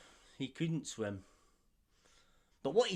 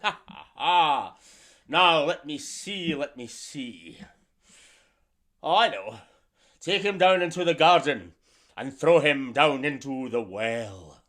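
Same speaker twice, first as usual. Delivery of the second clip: louder scheming villain laugh and orders; hammed-up villain pondering; gloating sultan; 6 dB louder than usual. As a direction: savour the cruel idea.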